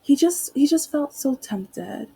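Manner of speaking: imitating a cloying online woman; syrupy sweet woman. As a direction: gush with fake sweetness. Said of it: "she was like".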